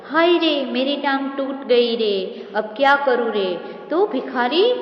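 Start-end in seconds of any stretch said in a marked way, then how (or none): 0.1-3.6 understated beggar's wail of pain; wailing cry. Acted. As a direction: lament the broken leg, lightly acted. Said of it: "चीख कर, चिल्ला कर बोलता है".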